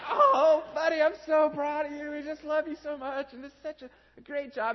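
high, loud, half-laughing, half-teary praise; gushing parent. Retold or imitated. Parents hugging their five-year-old, loud teary praise. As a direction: pour out pride on your little boy. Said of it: "we're like".

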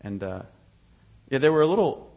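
ordinary talk

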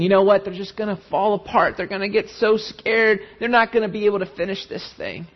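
lightly voiced scoffing doubters; mocking enemies. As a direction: taunt that they'll fall apart.

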